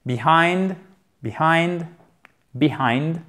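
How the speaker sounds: "Behind" with a clearly sounded H; H bien prononcé. Shown as a demonstration. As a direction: breathe out the H in "behind". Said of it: "faites bien le H ici". (« behind » avec le H bien prononcé)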